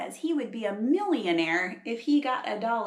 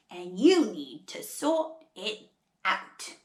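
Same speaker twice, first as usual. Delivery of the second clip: slow, lower, put-on Aussie scolding; koala's Australian telling-off; Australian accent; 4 semitones lower, slower than usual. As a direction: lay it down slowly in an Australian accent. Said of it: "trying really hard to do an Australian accent".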